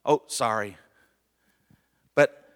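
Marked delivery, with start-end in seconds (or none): 0.0-0.8 light throwaway Oh, sorry; casual careless sorry; offhand sorry. Shown as a demonstration. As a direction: toss off the apology. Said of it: "Anybody can say".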